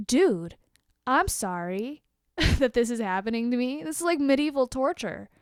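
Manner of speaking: patient snapping back at a rude dentist in a loud, laughing retort; sarcastic outburst. Retold or imitated. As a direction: throw it back at him, half laughing, half yelling. Retorting to the dentist mid-procedure.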